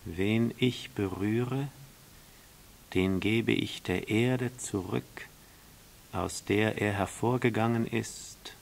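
lightly voiced solemn snake; a hint of an enigmatic storybook snake; snake, mysterious.

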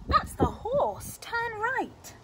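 slow, loud thief's direction; storybook thief. Acted. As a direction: give the order like a bungling burglar. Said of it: "and Len said".

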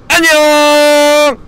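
high stretched goodbye call; playful farewell. Pretend. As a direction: sing out a mock goodbye. Farewell to dropped item, playful. (높게 늘여 작별 인사)

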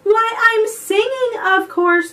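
high, lilting answer; reply as if it were obvious; airy reply. A narrator's reading. Dugong explaining herself to Benji, airy and high.

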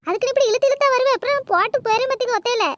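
mildly acted roadside yell. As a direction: scold her loudly for lagging behind. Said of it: "ஏன் இப்படி அலறிட்டு கிடக்க".

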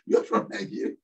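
laughing. Retold or imitated. Laughs while quoting the boy.

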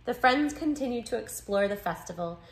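measured picture-book read-aloud; story narration. A narrator's reading. Narrator reading a children's book about two friends, story narration. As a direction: read it clearly to young listeners.

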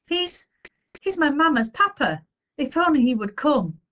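high, halting upset voice; mildly acted sob, pitched high; sobbing child, acted. A narrator's reading. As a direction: stumble into it as a tearful boy. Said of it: "he sobbed".

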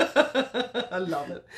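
slow, broad North Queensland accent; laughing North Queensland drawl. Shown as a demonstration. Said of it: "I can put on my North Queensland accent".

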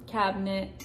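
"cabinet" squeezed into two syllables, cab-nit; mountain accent. Shown as a demonstration. Explaining Colorado speech, "cabinet" as cab-nit. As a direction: clip "cabinet" to cab-nit with a light ending. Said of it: "you drop the T's".

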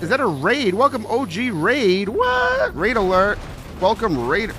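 high, thrilled announcement; excited welcome. Real, not acted. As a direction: hail the crowd that just arrived. Streamer announces incoming raid.

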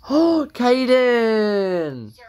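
long drawn-out happy call; delighted greeting. Pretend. Doll greets returning boy, slow delighted call. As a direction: draw the name right out in delight.

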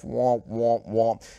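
drawn-out womp-womp noise; mock womp-womp. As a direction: sound out a dull, deflating womp. Imitates sad trombone jingle.

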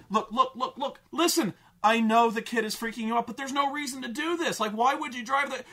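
mock dad calming her down; placating dad. Dad brushing off his daughter, mock soothing voice. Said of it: "she's like".

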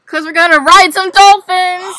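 shouting with excitement; excited announcement. Real, not acted. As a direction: reveal a big surprise loudly. Reveals surprise plan.

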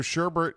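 "sherbet" said as SHER-bert; sherbert with extra R. Shown as a demonstration. Co-host conceding the variant isn't wrong, sherbert with extra R. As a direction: keep the second R in "sherbet". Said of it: "Sherbet with an additional R".

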